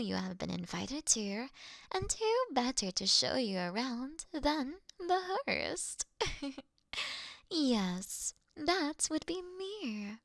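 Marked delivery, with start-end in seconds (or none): 6.1-6.6 a short, pleased laugh under the breath. Acted. Vampire host chuckles at guest.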